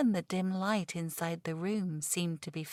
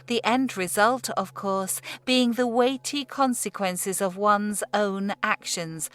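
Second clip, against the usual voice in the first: louder, rising, forceful sermon; strident; 6 dB louder than usual. Acted. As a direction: drive the warning home with force. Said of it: "taking on a more strident note".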